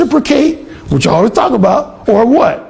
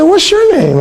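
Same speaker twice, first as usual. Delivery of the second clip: mimicking the roommate; 9 semitones higher than usual. Roommate voiced in story.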